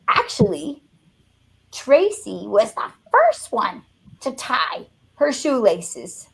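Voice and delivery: lightly voiced teacher, slow and matter-of-fact; a hint of a calm teacher setting it straight; teacher's reply. Teacher correcting the dad, lightly voiced and slow. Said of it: "And she said".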